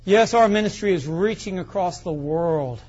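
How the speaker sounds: lightly voiced self-important televangelist; a hint of grand ministry boasting, drawn from a TV throne; mock TV preacher. Pastor mimics preachers in gold chairs on TV, lightly pompous.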